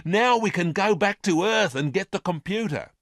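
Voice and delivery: put-on overjoyed girl's high excited cry; cried excitedly. A narrator's reading. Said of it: "she cried excitedly".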